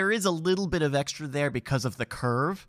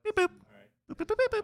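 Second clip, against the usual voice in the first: high robotic beeps; computer beeping; faster than usual. Pretend. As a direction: beep like a computer processing. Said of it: "this is what I do in my head".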